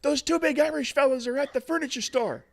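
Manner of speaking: put-on excited kid reporting in a high voice; high-pitched boy. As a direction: call it out like a small boy. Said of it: "a relatively high-pitched voice".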